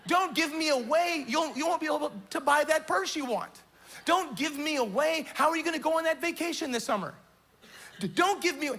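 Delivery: mock whiny voice of money tempting you. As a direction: beg them not to give you away. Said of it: "that voice is saying".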